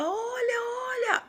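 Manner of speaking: a woman urging her to look; frightened woman calling out; panicked call. Retold or imitated. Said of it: "E ela falava".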